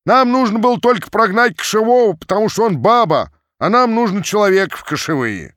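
high, loud rough shout; angry cossack crowd shouting down the chief; mob shouting. A narrator's reading. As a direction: yell it over the crowd.

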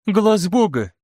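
put-on young woman nervously answering the lecturer. A narrator's reading. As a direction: blurt it out anxiously. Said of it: "нервно проговорила молодая женщина".

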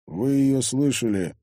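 slow, cold question. Acted. Father backing daughter against thugs, cold. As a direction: say it slowly with cool authority. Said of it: "холодно произнёс Егор".

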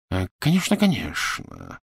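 impatient agreement, pitch jumping then dropping. A narrator's reading. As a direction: brush it off with hasty assent. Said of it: "нетерпеливо отозвался". (нетерпеливо)

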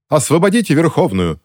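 high, urgent call; rallying cry. A narrator's reading. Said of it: "закричала Джелия своим сторонникам".

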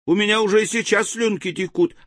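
small creature voice. Acted. Another villager's hungry delight.

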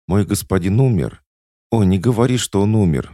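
a loud, desperate plea; desperate cry. A narrator's reading. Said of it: "вскричала она".

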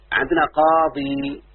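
teacher lingering on قاضي for the student; slow and drawn out. Shown as a demonstration. Teacher showing the word to his student, slow and drawn out. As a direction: stretch قاضي out slowly, each syllable clear. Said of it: "انتبه يا بنتي".

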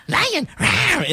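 put-on high, playful little-kid roar; toddler lion roar. Dad mimics his two-year-old's lion roar, high and playful. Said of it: "my two-year-old going".

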